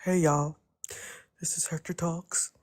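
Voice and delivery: lightly voiced Hector, just a hint of a YouTuber greeting; a mild take on Hector's intro; Hector impression. Friend teasing on stream, doing a light Hector intro. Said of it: "I'm gonna try to do my best Hector here".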